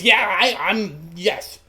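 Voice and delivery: stammering, halting eager yes; badly contained excitement. Boy accepts apprenticeship, badly holding back excitement. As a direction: trip over your words trying to stay cool. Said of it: "tries to hold back his unbridled excitement".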